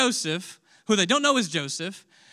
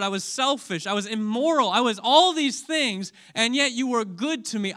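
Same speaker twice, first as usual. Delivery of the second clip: confession; 4 semitones higher, 3 dB louder than usual. Retold or imitated. Preacher confesses to the Lord.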